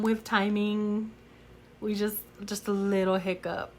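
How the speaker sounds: hesitant, downplaying excuse with pauses; smoothing it over. Telling Mister George of problems, hesitantly smoothing it over. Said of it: "Try to smooth it over".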